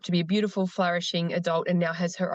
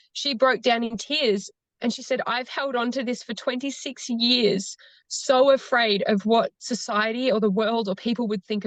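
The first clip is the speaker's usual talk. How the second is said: holding back real tears while retelling; getting emotional; 4 semitones higher than usual. Real, not acted. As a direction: voice lifting higher as emotion rises. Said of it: "oh gosh, I'm gonna get emotional".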